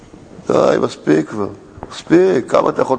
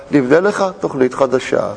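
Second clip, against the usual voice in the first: humbly; 3 semitones lower than usual. Retold or imitated. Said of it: "רק אומר בהכנעה".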